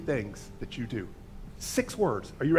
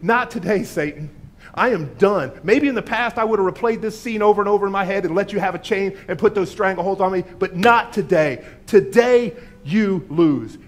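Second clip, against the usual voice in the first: loud defiant declaration, slowing on the last words; declared out loud; 4 semitones higher, 6 dB louder than usual. Pretend. Believer rebuking Satan out loud, defiant and loud. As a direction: stand tall and tell Satan off, loud. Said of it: "You declare out loud if needed".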